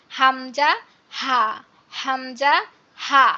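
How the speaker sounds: হামজা, হা released from an open throat; open-throat pronunciation. Shown as a demonstration. Teacher leads muted students in repeating, open-throat হামজা, হা. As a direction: drill হামজা and হা with the throat let go. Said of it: "হাটা কিন্তু একদম গলা ছেড়ে উচ্চারণ করব".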